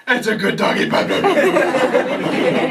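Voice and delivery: put-on sing-song baby voice to the dog; baby talk to a dog. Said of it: "ends in".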